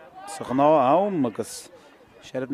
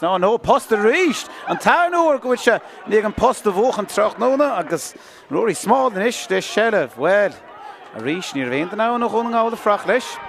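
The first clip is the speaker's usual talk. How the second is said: excited commentary; 6 semitones higher than usual. Real, not acted. Commentator telling radio listeners about the shot off the post, excited. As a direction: react live to the near miss.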